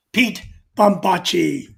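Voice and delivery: slow booming radio DJ intro. Acted. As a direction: announce the name like a radio DJ. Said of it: "How's my D J voice?".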